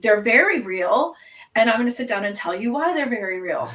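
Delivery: insist, leaning on VERY; mock-earnest insistence. Retold insistent rebuttal about vampires.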